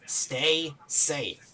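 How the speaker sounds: "stay ... safe", spaced out and clearly said; slow repeat. Acted. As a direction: STAY SAFE drawn out, each word apart. Repeats for old man who missed it.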